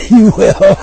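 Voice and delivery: sudden loud burst; loud excited. Real, not acted. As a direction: shout it out gleefully. Excited promise to listeners.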